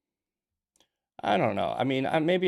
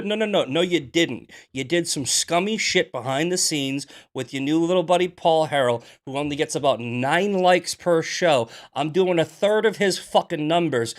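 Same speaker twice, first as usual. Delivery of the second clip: heated rant; 3 semitones higher, 4 dB louder than usual. Real, not acted. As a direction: keep ranting, hot. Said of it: "I'm heated today".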